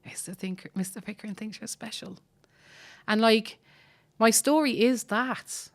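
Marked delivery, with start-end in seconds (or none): 0.1-2.2 soft breathless whisper; girl behind the door whispering in awe; awed whisper. Retold or imitated. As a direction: whisper it to yourself in wonder. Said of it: "me behind the door, like, I grew".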